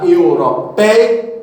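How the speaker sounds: Europeia drawn out syllable by syllable; slow syllabified word. Shown as a demonstration. Teacher to students on the ei diphthong, slow and careful. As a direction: say Europeia slowly, every syllable clear. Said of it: "vale para o ei".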